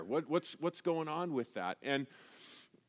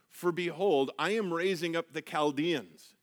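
scripture reading; 3 semitones higher than usual. Acted. Reads scripture.

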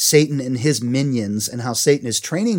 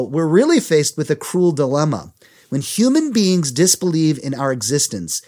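higher-pitched, emphatic letter reading; reading a letter aloud; 4 semitones higher, 3 dB louder than usual. A narrator's reading. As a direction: read it out with deliberate emphasis. Reads Satan's letter aloud.

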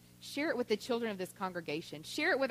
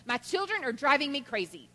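imitating a frustrated mother, pitched up; exasperated; 5 semitones higher, 3 dB louder than usual. Frustrated mother to neighbor across the street, mock exasperation. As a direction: complain like a worn-out mother at her limit. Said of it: "she was so frustrated".

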